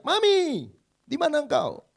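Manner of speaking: high, loud frightened call for mommy; child's scared cry. Retold or imitated. Boy calling for his mother in a dark tunnel, frightened high cry. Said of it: "tiba-tiba dia teriak".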